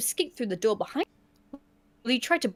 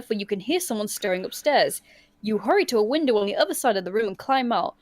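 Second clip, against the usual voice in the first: story narration; 3 semitones lower than usual. A narrator's reading. Reads gamebook scene aloud.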